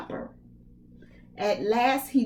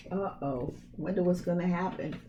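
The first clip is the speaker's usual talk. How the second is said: hushed aside; 3 semitones lower, 6 dB quieter, faster than usual. Real, not acted. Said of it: "aside to listeners".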